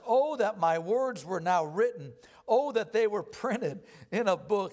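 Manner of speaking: slow, weighty reading of Job's lament; measured pulpit recitation of scripture; solemn scripture reading. Acted. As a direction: read it like a grieving plea, drawn out. Reads Job's plea.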